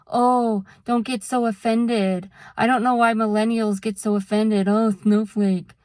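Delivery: quick, dismissive mocking tone; snarky mock voice. Mocking people who call others too offended, quick snarky tone. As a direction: sneer it like a smug meme poster. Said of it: "snarky memes saying".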